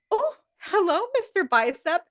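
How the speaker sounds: a hint of a purring come-on; flirty Phoebe.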